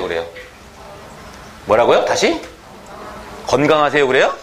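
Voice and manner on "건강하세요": "건강하세요" with a clear n before g; standard pronunciation. Shown as a demonstration. Teacher doubting that students say it this way, standard pronunciation. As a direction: say geon-gang in "건강하세요". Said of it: "진짜요?".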